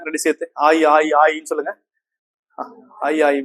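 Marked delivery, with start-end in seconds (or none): 0.7-1.5 "ஆயி" repeated, its two vowels joined into ai; run together quickly. Shown as a demonstration. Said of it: "இது வேகமா சொல்லுங்க". 3.1-3.4 "ஆயி" repeated so aa and i blend into ai; run together quickly. Shown as a demonstration. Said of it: "வேகமா சொல்லுங்க".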